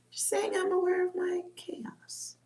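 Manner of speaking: whispered confession. Real, not acted. Confessing her chaos.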